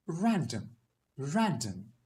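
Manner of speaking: "random" in British RP; British accent. Shown as a demonstration. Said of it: "in a British accent".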